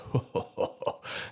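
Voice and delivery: mimicking a corporal's big laugh; imitated big laugh. Recruit mimics his towering corporal, imitated big laugh. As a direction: put on a big man's laugh. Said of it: "he had this big laugh".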